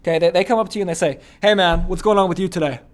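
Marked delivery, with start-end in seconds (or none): 1.4-2.8 loud greeting with no uptone; drill sergeant. Retold or imitated. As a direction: fire off the question loudly, without a lift at the end. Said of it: "this guy's like a drill sergeant".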